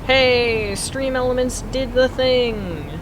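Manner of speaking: high, loud, drawn-out happy exclamation; excited cheer. Real, not acted. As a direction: cheer that it finally worked. Delighted the automated timer message worked.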